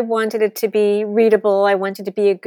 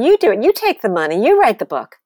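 louder, emphatic mock yell; retold yelling at agent; 2 semitones higher, 5 dB louder, faster than usual. Author retelling shouting at her agent about money, loud mock yell. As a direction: jab each "you" at him. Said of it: "And I'm screaming at him".

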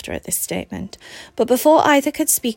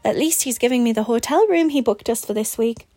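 a bright, pushed cheer over hurt; forced cheer; 3 semitones higher than usual. Acted. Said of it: "tried to inject a level of cheer into her voice".

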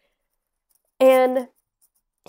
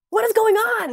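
high-pitched mock disbelief, breaking into laughter; incredulous outburst; 12 semitones higher, 4 dB louder than usual. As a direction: squeal it in laughing bewilderment. Retelling her own disbelief.

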